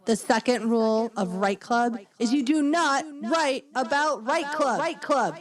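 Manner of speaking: hammed-up rule proclamation; mock announcer. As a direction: proclaim the rule, lifting toward the end. Echoes the club rules as announcer.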